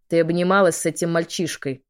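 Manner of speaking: hissing reptile growl. Acted. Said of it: "прорычал дракон".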